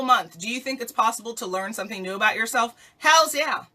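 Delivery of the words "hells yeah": high, loud hype answer; emphatic hells yeah. Real, not acted. Answering her own question with a high excited yes. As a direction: shout it like a cheerleader.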